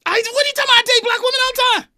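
squeaky high, loud protest; defensive. Real, not acted. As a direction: deny it fast and flustered. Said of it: "why do I sound so defensive".

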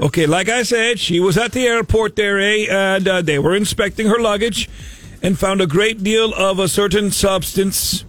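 bad fake Canadian accent; a hammy Canadian accent. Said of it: "the worst Canadian accent ever".

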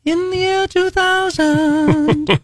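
high, slow, echoey futuristic announcer; sci-fi announcer. Pretend. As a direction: drawl it like a retro sci-fi host.

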